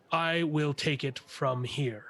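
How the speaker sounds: slow, measured officer's command; firm authority. Acted. Blaine to the militia leader, a slow firm claim of command. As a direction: lay down rank calmly and slowly. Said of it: "Blaine says".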